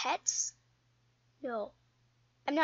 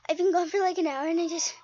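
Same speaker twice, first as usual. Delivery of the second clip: talking out of breath after running; breathless from running around; 4 dB louder than usual. Real, not acted. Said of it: "sorry if I'm out of breath".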